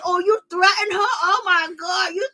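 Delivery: high, whiny fake-crying voice; mocking Wendy. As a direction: imitate Wendy's over-the-top fake sob. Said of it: "She had to jump in a situation".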